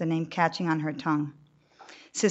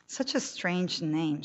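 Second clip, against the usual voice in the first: questioning; slower than usual. Acted. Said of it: "says Sister Teresa questioningly".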